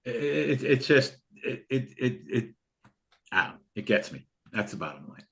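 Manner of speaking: fighting back tears over single moms; emotional, choked up. Real, not acted. Host chokes up telling viewers about single moms. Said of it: "I get emotional".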